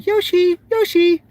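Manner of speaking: imitating daughter. Mom retelling daughter's cute Yoshi, squeaky. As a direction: mimic a little girl's Yoshi. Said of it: "she was doing".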